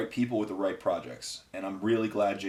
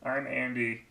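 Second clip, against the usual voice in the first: higher, slow goofy friend voice; slow, pleased, pitched-up Andy; Andy impression; 5 semitones higher, much slower than usual. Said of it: "That's basically Andy".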